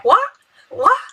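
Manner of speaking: sharp high blunt What What; rude what. Retold or imitated. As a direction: snap it like a rude reply. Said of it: "é um pouco mal educado".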